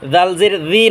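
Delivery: "জাল জের জি" with soft th as in "this"; thin voiced th in "জাল জের জি", tongue at tooth tips; soft thin DHAL. Shown as a demonstration. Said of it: "নরম আওয়া".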